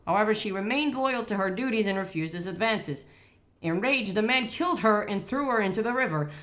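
legend read out as narration; reading aloud. Real, not acted.

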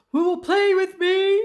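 high, loud sing-out question; eager calling out. A narrator's reading. Smiley Shark asks Angelfish to play, eager calling out. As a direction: call it out high and hopeful to a playmate.

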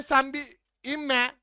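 slow, stretched pleading repeat; drawn-out plea. Real, not acted. Gamer pleading with a teammate not to go down, drawn out slowly. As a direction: drag each word out, begging.

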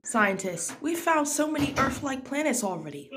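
put-on American accent by a British speaker; British speaker doing American. Shown as a demonstration. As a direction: read posts aloud in an imitated American accent. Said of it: "this American accent thing".

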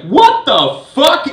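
high, slow, shrieked disbelief; drawn-out furious scream of disbelief; screaming outrage. Retold or imitated. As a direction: shriek it as she's tackled. Misty screaming on the ground.

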